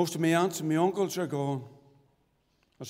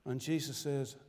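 scripture recitation. Acted. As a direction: recite the verses reverently, measured.

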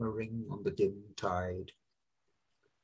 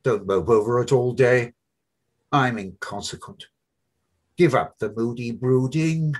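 Buck Mulligan; 8 dB louder than usual. Acted. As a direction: play the brash medical student, needling his friend. Mulligan voiced by narrator.

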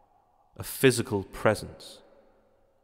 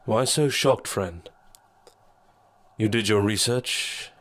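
lightly voiced sly shadow, mocking; a calm, taunting dark presence. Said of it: "the shadow said".

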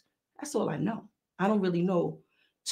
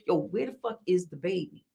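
serious; 5 dB quieter than usual. Retold or imitated. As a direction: drop the hype, ask for real. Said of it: "Then I'm getting serious".

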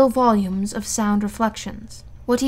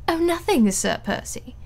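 forced gaiety; 5 semitones higher than usual. A narrator's reading. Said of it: "with a certain amount of gaiety".

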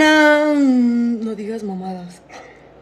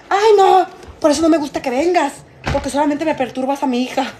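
scolding grandmother; 3 semitones higher than usual. Retold or imitated. Abuela regaña en la historia. (imitando a una abuela enojada que regaña)

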